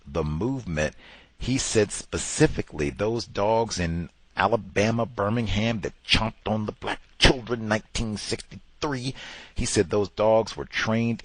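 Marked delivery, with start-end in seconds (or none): none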